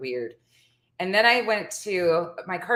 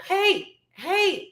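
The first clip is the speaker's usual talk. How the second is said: high-pitched imitated "hey" from afar; calling out; 12 semitones higher than usual. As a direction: mimic hailing someone, without full volume. Man calling her across parking lot.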